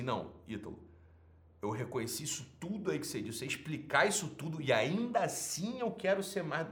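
proud person. Retold or imitated. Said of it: "A soberba é assim".

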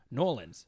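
"Nolans" said as one quick slurred word; "Nolans", with the syllables swallowed; slurred city name. Retold or imitated. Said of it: "if you're closer".

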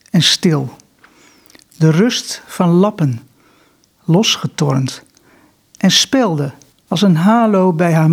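slow, measured poetry recital with long pauses; deliberate, unhurried verse reading; poem reading. Acted. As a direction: read the poem line by line, letting each phrase stand. Reads own poem aloud.

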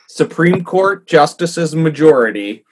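laughing through the words. Real, not acted. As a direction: chuckle while saying it. Repeats phrase while laughing.

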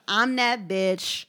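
slow, cocky drawl; slow boastful swagger. Retold or imitated. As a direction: strut it out slowly. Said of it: "She's like".

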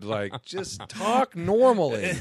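slow, drawn-out plea; retold exasperation. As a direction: spell it out, fed up. Retold plea to stop mimicry.

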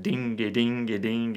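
"ding-a-ding-a-ding" slowed into long-short lilting beats; shuffle rhythm. Shown as a demonstration. Guitar teacher shows how the lick is played, shuffle rhythm. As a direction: swing "ding-a-ding-a-ding" with each "ding" held longer. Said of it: "playing it in a shuffle".

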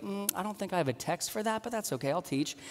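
a hushed mock inner voice; inner thought. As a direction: settle it quietly in your own head. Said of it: "you're like".

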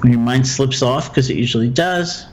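calm, measured meditation guide with long pauses; guided meditation. Acted. Teacher guiding a listener through loving-kindness phrases, guided meditation. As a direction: guide them gently through it, leaving room for silence.

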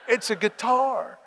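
chuckling through the words, slowed down; laughing. Real, not acted. Pastor laughing at his friend afraid to touch the guitar, amused.

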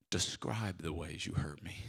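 low whispered twist; whispered punchline. Retold or imitated. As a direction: drop to a whisper for the joke.

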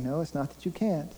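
soft, steady voice speaking as God; hushed, earnest correction; quiet reproof. Acted. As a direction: bring the volume down and press the point gently. Voices God answering the worried worker.

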